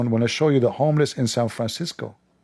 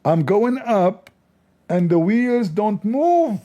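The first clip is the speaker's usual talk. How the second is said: higher, louder, slow marvelling at the wheels; mock amazement; 7 semitones higher, 3 dB louder, slower than usual. Mocking the journalist's awe at the cart escalator, hammed-up wonder. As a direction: ham up the wonder of a miracle.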